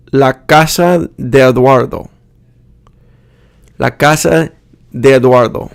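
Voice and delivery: de Eduardo merged as deduardo; linked vowels. Shown as a demonstration. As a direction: share one e between de and Eduardo. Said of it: "vowel is pronounced only once".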